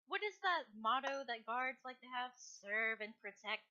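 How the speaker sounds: slow, drawn-out fake praise; dry, mocking congratulations; sarcastic mockery. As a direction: needle a guard with hollow compliments. Prisoner mocks guard's motto, laughing.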